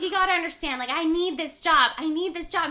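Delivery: retold coworker pleading his case; urgent imitation of someone begging for understanding; acted pleading. Coworker pleading when confronted over theft.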